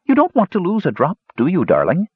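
high, scratchy doting crone; shrill, scratchy, loving. A narrator's reading. Old woman spoon-feeding her captive, shrill and full of love. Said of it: "Her shrill, scratchy voice".

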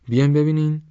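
put-on high, loud boy's call. A narrator's reading. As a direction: summon them urgently, pitched well up. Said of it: "ناگهان پرواز فریاد زد". (با فریاد صدا کردن)

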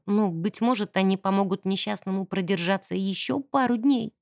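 ordinary delivery, nothing marked

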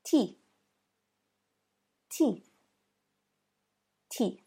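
"teeth" ending in an airy unvoiced th; "teeth" with the tongue tip out at the end; unvoiced TH demo. Shown as a demonstration. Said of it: "And the final example".

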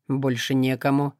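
low, calm, detached voice; indifferent demon. Acted. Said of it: "ровно отозвался Акара".

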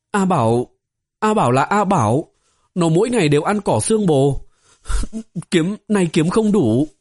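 a shy little disciple fighting back tears; girl explaining to the stern senior, close to crying; timid young girl. Acted. Tearful girl explains A Bảo.

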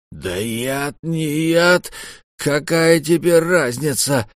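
rising high, slow anguished cry; despairing exclamation. A narrator's reading. Merchant despairing over the poisoned boy. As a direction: throw up your hands in despair. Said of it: "сокрушённо, почти в отчаянии воскликнул купец".

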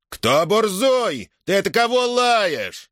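the strongman bristles at an insult; menacing challenge. A narrator's reading. Strongman Platon steps in.

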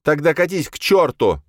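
high, loud furious yell; shouted curse. A narrator's reading. Jocasta to Virgil, shouting him out. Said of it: "крикнул ему Иокаста".

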